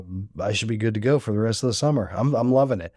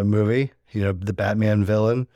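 ordinary delivery

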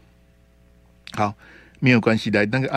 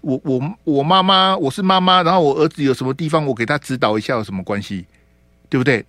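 higher, louder indignant protest; a mother defending her son, pitched up and pushed louder; retold indignant mother; 3 semitones higher, 3 dB louder than usual. Host voices the mother defending her son, indignant and raised. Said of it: "她也不太高兴".

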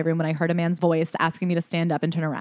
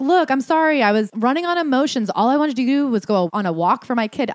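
mock excuse; 5 semitones higher than usual. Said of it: "he's like".

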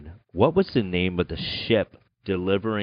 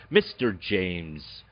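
game show host; 5 semitones lower, 5 dB quieter than usual. Acted. Host announces final guest.

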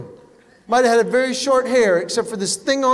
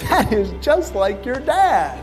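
1 sly jab; slower than usual. Shown as a demonstration. Wife's punchline to husband.

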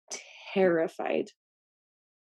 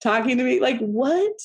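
laughing disbelief; 5 semitones higher than usual. Real, not acted.

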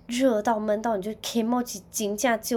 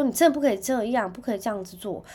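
scared warning; 3 semitones higher, 5 dB louder than usual. Retold or imitated. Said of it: "然后我就很害怕".

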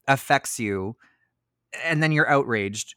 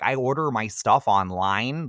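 put-on slow, light Midwestern Ohio accent; 3 dB louder than usual. Imitating the actress's Ohio accent for a friend. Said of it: "that accent".

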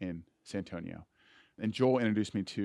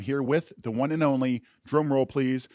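ringmaster; 4 semitones higher, 7 dB louder than usual. Acted. Showman introduction of co-host.

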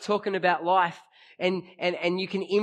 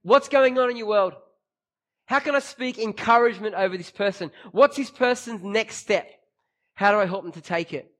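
sincere; 4 semitones higher, 5 dB louder than usual. Retold or imitated. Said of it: "intentionally influence is saying".

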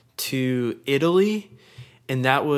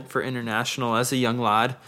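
put-on Scottish accent. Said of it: "slipped into a, like, a Scottish accent".

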